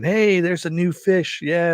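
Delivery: high teasing call of new fish; mock inmates calling out.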